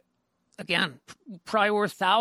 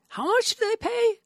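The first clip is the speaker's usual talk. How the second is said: incredulous thought; 4 dB louder than usual. Retold or imitated. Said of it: "I thought".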